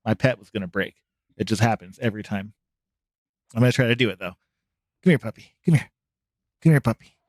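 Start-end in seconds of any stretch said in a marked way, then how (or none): 5.0-7.2 calling the dog over, a bit louder. Real, not acted. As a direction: call out to the puppy.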